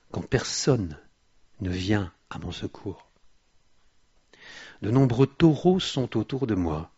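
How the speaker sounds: loud, declamatory psalm reading; preacher proclaiming Scripture in forceful bursts; impassioned scripture reading. Acted. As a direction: hit each verse hard at its start, then ease off. Reads the psalm aloud with force.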